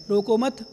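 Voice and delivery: "रोको मत" joined with no break; run together as misheard. Shown as a demonstration. Monk showing what the listener misheard, "रोको मत" joined. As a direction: attach "मत" straight onto "रोको". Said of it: "और क्या सुन लिया उसने?".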